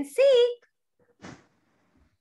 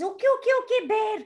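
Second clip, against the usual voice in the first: higher eager chorus voice; animal friends answering; 3 semitones higher than usual. Acted. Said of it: "And everybody says".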